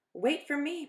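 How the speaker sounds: high, loud call to a friend; calling after. Acted. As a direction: shout after someone running ahead. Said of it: "Parker called".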